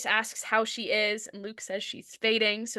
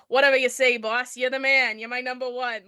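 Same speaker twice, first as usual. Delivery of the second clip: put-on New York accent; 2 semitones higher, 4 dB louder than usual. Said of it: "read him with a thick New York accent".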